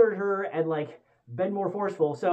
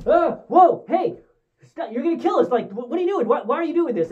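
high, loud panicked yelling at the pilot; 7 semitones higher, 4 dB louder than usual. Retold or imitated. Co-pilot panicking as she zooms in, high frantic yelling. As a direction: freak out as she dives the ship. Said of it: "and he's like".

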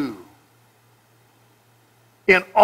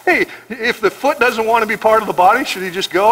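sarcastic; 3 semitones higher than usual. Retold or imitated. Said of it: "he's being sarcastic".

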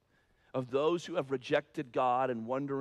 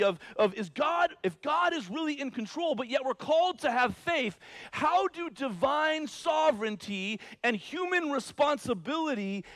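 high, loud impassioned preaching; rising pulpit intensity; 10 semitones higher, 5 dB louder than usual. Acted. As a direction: preach it out, building fervour. Preacher raises voice on tension.

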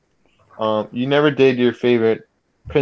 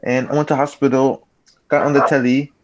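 mock British accent. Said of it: "He can just switch. Like".

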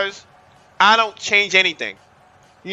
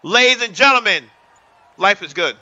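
hype shout; 3 semitones higher, 3 dB louder than usual. Real, not acted. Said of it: "hyping chat, shouting".

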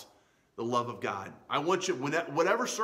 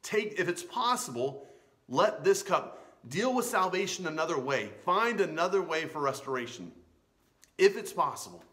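raised, insistent appeal to God; mildly acted, earnest imploring; appealing plea; 4 semitones higher than usual. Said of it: "was appealing to the character".

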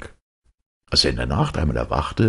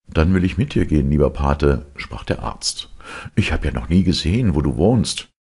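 eager doctor. Acted.

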